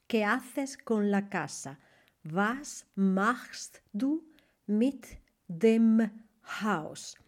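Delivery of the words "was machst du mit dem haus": slow, split into separate words. Shown as a demonstration. Teacher breaking down the question word by word. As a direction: pause between each word. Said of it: "Haus es neutro".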